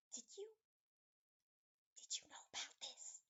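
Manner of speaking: hushed, hesitant whisper. Acted. Nanny whispers to Ultra Brain, halting whisper. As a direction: whisper it across to a companion. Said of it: "she's gonna whisper".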